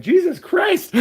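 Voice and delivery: high, loud, laughing exasperation; exasperated. Real, not acted. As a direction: throw up your hands at the chat. Exasperated by hat comments.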